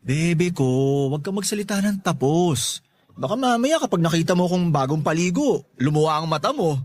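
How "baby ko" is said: drawn-out sweet talk. Acted. Sweet-talking her.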